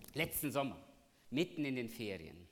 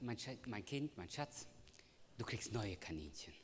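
put-on softer, gentle consoling of a child; tender comfort; 6 dB quieter than usual. Father consoling his crying daughter, softly tender. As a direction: soothe her like a sad little girl.

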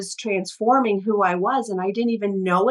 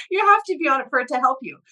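mocking; 5 semitones higher, much faster than usual. Mimicking doctors after laugh.

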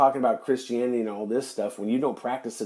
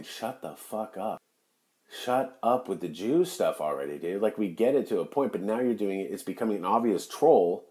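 talking trees; 4 dB quieter than usual. Pretend. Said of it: "the trees are listening to you going".

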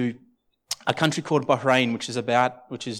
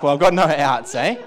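laughing; 6 dB louder than usual. Retold or imitated. Retelling nervous resignation with laugh.

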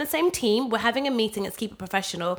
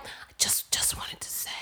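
stage whisper; 10 dB quieter, slower than usual. Retold or imitated. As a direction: whisper it so everyone hears. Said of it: "it's a stage whisper at best".

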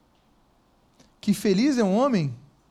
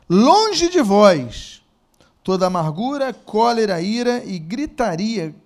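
louder, measured Bible reading with slowed phrases; scripture reading; 5 dB louder than usual. Acted. Preacher reads Ephesians to the church, solemn reading. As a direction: read the verse with solemn weight.

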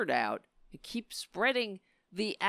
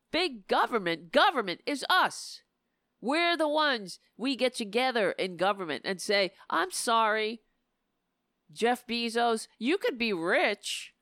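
fired-up rant; 3 semitones higher than usual. Real, not acted. Building rant, higher and louder.

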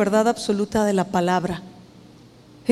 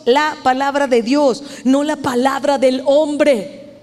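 "la palabra de Dios" firm, "no la palabra del hombre" slowed; slow, emphatic stress on "Dios" and "hombre"; emphatic contrast; slower than usual. Shown as a demonstration. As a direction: hammer "Dios" against "hombre". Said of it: "Se lo enfatizo".

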